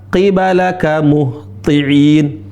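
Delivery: "qibalaka muhti'in" stretched syllable by syllable; very slow. Shown as a demonstration. Teacher slowing "qibalaka muhti'in" right down for students. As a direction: spell it out slowly for learners.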